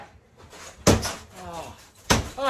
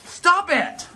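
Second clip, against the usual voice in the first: raised, high exasperated order; angry scolding; 5 semitones higher than usual. Real, not acted. Parent scolding child smashing bathroom.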